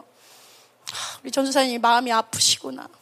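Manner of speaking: soft, low sigh of sympathy; pitying. Acted. Students feeling for their pastor, soft pity. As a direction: murmur it with gentle pity, mildly acted. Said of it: "안쓰러워하는 마음들".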